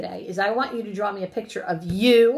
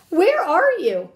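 high, loud, drawn-out call; slow storybook holler; crying out; 10 semitones higher, 8 dB louder, slower than usual. A narrator's reading. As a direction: call out searching for a friend. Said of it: "cried the thing".

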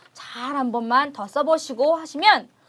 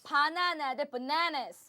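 slow model word; 8 dB quieter, much slower than usual. Shown as a demonstration. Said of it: "teacher modelling words".

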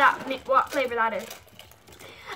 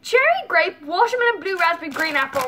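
indignant; 5 semitones higher than usual. Real, not acted. Indignant complaint about missing flavor.

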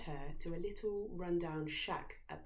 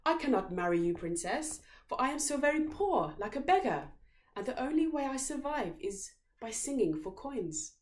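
higher, louder mock-poor prince; pleading beggar; 7 semitones higher, 6 dB louder than usual. A narrator's reading. Prince posing as a poor beggar to the princess. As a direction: play up the poverty. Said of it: "said the prince".

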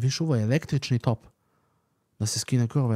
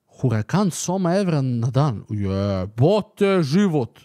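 shocked disbelief; 4 dB louder, much slower than usual. Real, not acted. Shocked by Huracan price.

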